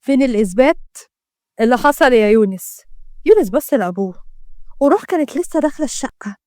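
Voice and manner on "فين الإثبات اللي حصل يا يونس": understated stern demand; a restrained angry father demanding proof; forceful yell. Acted. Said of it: "محمد زعق بقوة".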